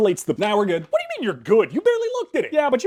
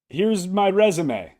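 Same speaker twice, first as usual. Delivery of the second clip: slow cool delivery; much slower than usual. Acted. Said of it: "I don't even know why I tried that".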